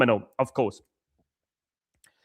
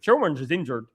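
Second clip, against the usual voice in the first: lower, tentative Bristol twang; attempted Bristol accent; 4 semitones lower, 4 dB quieter than usual. Shown as a demonstration. Testing a player's name on viewers, rough Bristol accent. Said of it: "Is it a Bristol accent?".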